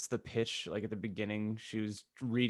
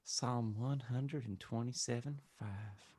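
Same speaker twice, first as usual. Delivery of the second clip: solemnly; 7 dB quieter, much slower than usual. Acted. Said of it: "Dumbledore referenced solemnly".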